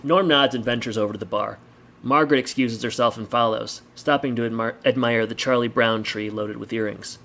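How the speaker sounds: measured audiobook-style narration; story narration. A narrator's reading. Reader sets a bar scene for listeners, story narration. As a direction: read the story aloud with deliberate phrasing.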